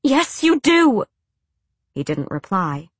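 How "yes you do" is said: high, loud and slow insisting; hushed suspense. A narrator's reading. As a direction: insist hard, slowly. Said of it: "while still maintaining a hushed tone".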